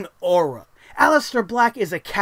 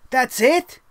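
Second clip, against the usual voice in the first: disbelieving question; 2 semitones higher than usual. Retold or imitated. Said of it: "'cause I was like".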